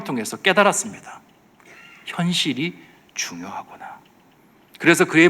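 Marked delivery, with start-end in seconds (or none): 2.0-4.0 slow, whispery inner thought; hushed realisation. Acted. King concluding that reality matters, slow hushed realisation. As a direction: let it sink in slowly, under the breath.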